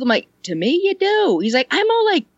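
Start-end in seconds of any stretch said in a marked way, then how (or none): 0.4-1.4 high-pitched, insistent reply; retold insistence. Speaker defends the compliment to him, high and insistent. Acting out own reassurance. 1.7-2.3 imitating him, pitched way up; mock squeaky complaint. He complains about his own voice range, squeaky. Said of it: "I go squeaky".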